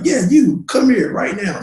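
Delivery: high-pitched imitated command; retold police yell. Officer summoning a man over, retold yell. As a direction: act out an officer calling someone over, pitched well up. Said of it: "yells out to me".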